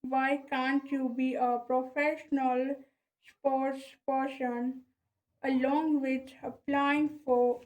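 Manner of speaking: reading aloud around a pen held in the mouth; words shaped around a pen between the teeth. Shown as a demonstration. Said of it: "just I put the pen in my mouth".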